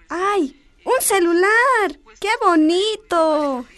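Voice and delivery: delighted. Acted. Girl opens grandma's gift.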